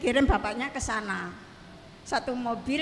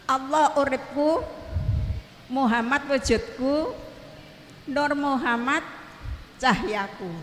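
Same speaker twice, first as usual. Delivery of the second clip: recited devotional formula. Shown as a demonstration. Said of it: "saya membaca gini".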